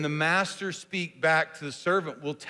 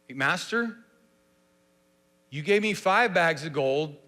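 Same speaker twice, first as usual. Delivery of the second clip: unsure, asking for approval. Shown as a demonstration. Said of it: "Do you hear that as a question?".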